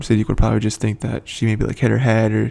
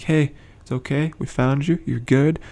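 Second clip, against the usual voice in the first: retold reassurance; 4 semitones higher than usual. Voices friends calming panicked Rosita.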